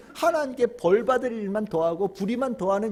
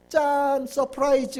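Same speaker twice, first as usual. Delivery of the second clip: higher, drawn-out mock ta-da; playful surprise reveal; 5 semitones higher, slower than usual. Preacher playing God revealing a gift, playful surprise. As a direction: present a surprise gift, lightly acted.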